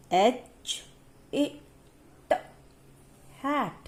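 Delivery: each letter sound said apart, then hat; teacher segmenting H, A, T before saying hat. Shown as a demonstration. Teacher shows her class segmenting, sound by sound. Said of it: "So this is segmenting".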